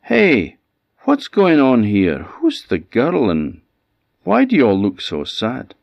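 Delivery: high, loud call to the coach driver; young man shouts after the passing coach; shouting. A narrator's reading. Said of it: "he shouted to the coach driver".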